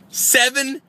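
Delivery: shocked, high, disbelieving; incredulous seven. Real, not acted. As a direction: scoff at the early hour. Outraged at 7 AM checkout.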